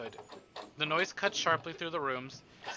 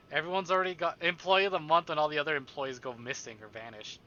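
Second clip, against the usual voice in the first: chuckling through the joke, a bit louder; laughing; 5 dB louder than usual. Real, not acted. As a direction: laugh at the absurd irony. Laughing at the irony.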